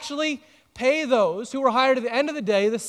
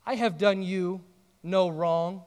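gentle correction. Retold or imitated. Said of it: "He says".

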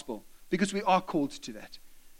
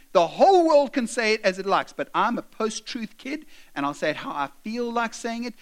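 put-on defiant child; 3 semitones higher, 5 dB louder than usual. Daughter's defiant reply, acted.

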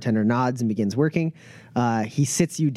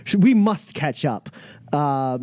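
higher-pitched, gushing host; effusive Pep; 7 semitones higher than usual. Acted. Pep greeting a player at the cantina, effusive. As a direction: greet an old friend with showy delight. Plays Pep feigning a warm welcome.

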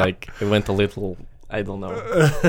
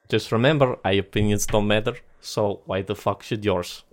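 put-on Russian accent. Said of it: "you have to get in Russian voice".

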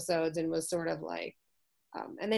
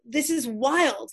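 retold mad outburst; 4 semitones higher than usual. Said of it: "I'm just mad".

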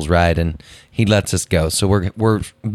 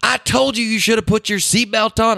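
high-pitched mock wife's scolding; Lisa; 13 semitones higher than usual. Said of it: "And Lisa just".

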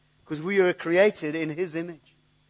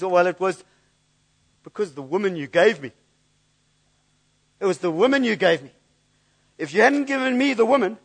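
whiny blaming, rising in pitch and louder toward the end; mock grumbling excuse; 3 dB louder than usual. Adam blaming God for the woman, mock whiny complaint. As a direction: moan it like a sulky man shifting blame. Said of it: "grumbles and complains and moans and says".

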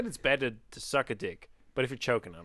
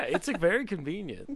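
mock Italian accent. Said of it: "Say something else with that Italian accent".

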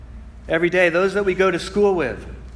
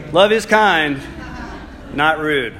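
laughing correction; slower than usual. Real, not acted. Preacher correcting his slip with a laugh. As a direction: laugh it off and set it right. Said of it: "First point was love is not kind".

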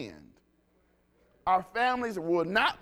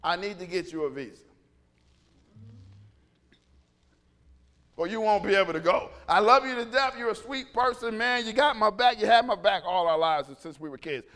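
mock ambassador warning; 5 dB louder than usual. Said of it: "I'm trying to say".

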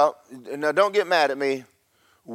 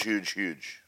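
huge, huge dropping much softer and lower; fading to hush; 6 semitones lower, 10 dB quieter than usual. Acted. Pastor stressing his point, fading softly. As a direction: let huge, huge trail away to a hush.

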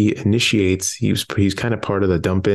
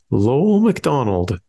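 voice cracking; 5 semitones higher, slower than usual. Real, not acted. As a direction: voice breaks on the name Lowell. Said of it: "your voice cracked".

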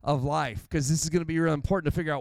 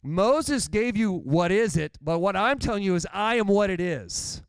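Jesus speaking; 4 semitones higher than usual. Retold or imitated. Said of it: "He's saying, you know".

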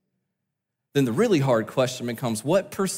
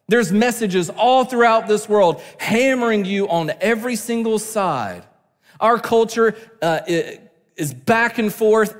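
higher, urgent pulpit delivery; impassioned preaching; 5 semitones higher, 3 dB louder than usual. Real, not acted. Preacher warning church about the world's hammering messages, impassioned preaching. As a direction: press it hard on the congregation.

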